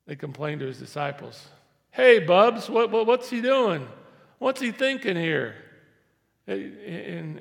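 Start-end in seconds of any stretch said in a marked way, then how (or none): 1.9-5.6 loud, higher nosy challenge; hammed-up Pharisee accusing; indignant Pharisee. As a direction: jab at the disciples, demanding answers. Pharisees confront the disciples.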